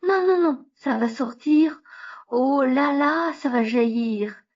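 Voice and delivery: panicked high pleading; frantic, can't hold it any longer; needing the toilet. Acted. About to burst, toilet.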